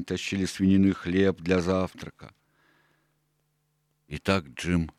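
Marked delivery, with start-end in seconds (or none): 4.1-4.9 sad. Acted. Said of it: "грустно сказал доктор".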